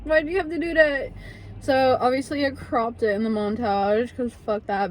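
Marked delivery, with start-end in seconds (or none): 0.0-1.1 mock diva telling off a stranger; sassy retort. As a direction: snap back at her, way up high. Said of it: "I'm like".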